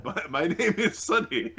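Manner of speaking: laughing. Real, not acted. Player laughing in character.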